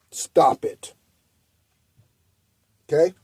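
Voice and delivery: hushed, voiceless "stop it"; whispered scold. Acted. Telling complainers to quit, in a whisper. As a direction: whisper it like a final warning.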